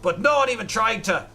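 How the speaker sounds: hammy pirate captain, extra h sounds. Acted. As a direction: read like a boastful pirate. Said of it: "H's are just pronounced that way".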